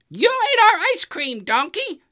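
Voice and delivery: angrier Goose. A narrator's reading. Goose confronting Donkey over the ice cream, angrier. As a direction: let the anger climb on the repeat. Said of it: "called Goose with an angry voice".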